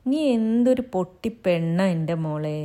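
gentle, fond teasing; lightly voiced affectionate husband; tender husband. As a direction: comfort her lovingly. Husband comforts crying wife.

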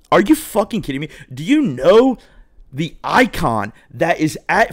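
high, incredulous outrage; mock-furious at being turned away; outraged disbelief. Rejected guest to hostess, high outraged disbelief.

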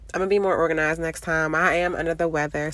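stuffy nasal voice from a cold. Real, not acted. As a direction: talk through a blocked, nasal nose. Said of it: "please excuse my nasally voice".

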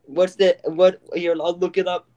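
hammed-up New Jersey talk; New Jersey accent. Host chatting about mobster shows on request, New Jersey accent. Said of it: "That was my New Jersey accent".

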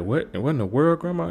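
high squeaky disbelief rising on Grandma; mock shock. Ronnie shocked at strip show.

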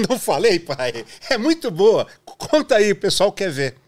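high, loud eager urging; excited urging. Retold or imitated. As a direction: egg him on excitedly. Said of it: "Aí o Ricardo falou".

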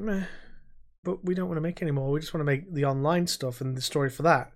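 fast, dismissive developer brush-off. Retold or imitated. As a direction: shrug it off quickly. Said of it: "they just went".

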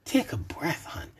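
chuckling. Acted. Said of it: "I chuckled".

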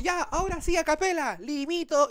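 high prim announcement; lightly voiced diva; mock diva singer. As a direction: do the singer's a capella bit. Singer tries a capella.

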